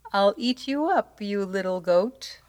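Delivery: high, timid troll threat; threaten, but lose your nerve; small voice. A narrator's reading. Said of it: "in a voice that sounded quite small".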